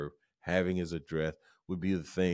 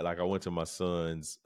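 usual speaking voice

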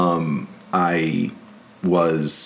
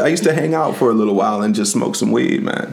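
put-on Jamaican accent; 3 semitones higher, faster than usual. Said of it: "I do horrible accents".

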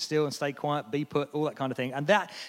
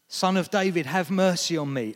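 louder plea, calling out; 2 semitones higher, 5 dB louder than usual. Retold or imitated. Bartimaeus calls out again, louder and pleading. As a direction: keep crying out despite them. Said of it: "He called all the louder".

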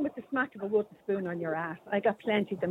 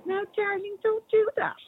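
higher, whiny mock-mum plea; 8 semitones higher than usual. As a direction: mimic a limp, pleading parent. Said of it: "mommy stands back and goes".

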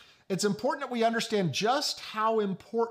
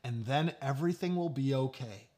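slightly lowered, even reassurance; mild, retold calm under pressure; very calm dad; 4 semitones lower, 4 dB quieter than usual. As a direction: soothe patiently, imitating an unruffled father. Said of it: "very calmly saying over and over".

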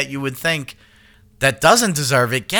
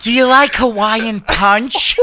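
louder sultry diva drawl; Coolidge impression; 7 semitones higher, 4 dB louder, slower than usual. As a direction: purr it like the diva. Keeps doing the impression.

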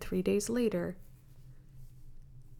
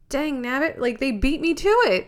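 louder, higher hammed-up Southern accent; mock Southern accent; 4 semitones higher, 9 dB louder than usual. To the listeners, imitating a Southerner with a Southern accent. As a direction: play a cranky old Southerner, Southern accent. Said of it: "I'm trying to think like a Southerner".

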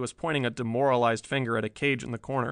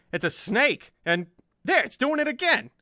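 much higher, louder alarm; panicked shout; 11 semitones higher, 4 dB louder than usual. Acted. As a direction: shriek at the snake. Bland panics at snake.

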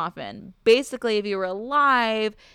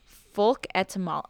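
mouth full. Real, not acted. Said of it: "alcohol in my mouth".

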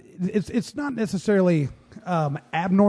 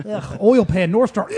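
queasy; 5 semitones higher, 7 dB louder, slower than usual. Pretend. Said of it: "I'm queasy now".

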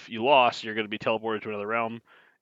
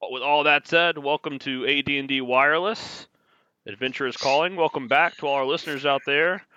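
radio host voice; 2 semitones higher than usual. Pretend. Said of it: "Sound like a radio host".

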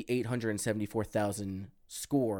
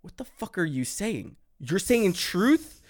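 retold bafflement; 8 semitones higher, 4 dB louder than usual. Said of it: "at first I'm just like".

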